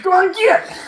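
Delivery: short high-pitched shout; hammed-up yell to clear out; shooing holler. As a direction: holler like chasing off a stray. Shooing someone named Jake away.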